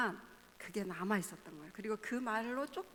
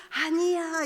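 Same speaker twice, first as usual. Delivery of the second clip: emphatic denial; 6 semitones higher, 10 dB louder, much slower than usual. Retold or imitated. Parents contradict child's despair.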